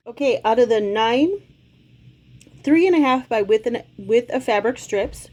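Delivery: talking around a cough drop; cough drop in mouth. Real, not acted. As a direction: mouth full with a lozenge. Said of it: "sorry, I have a cough drop in my mouth".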